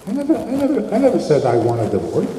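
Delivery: high-pitched stammered denial, dropping at the end; mock protest. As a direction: imitate a husband hastily protesting. Husband protesting in counseling.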